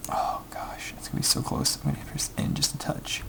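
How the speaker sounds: voiceless whisper held through a tense moment. Real, not acted. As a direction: breathe it out, barely audible, nervous.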